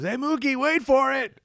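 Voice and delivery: mock holler; imitated calling out. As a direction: call to a buddy, tipping him off. Retelling a golfer calling out.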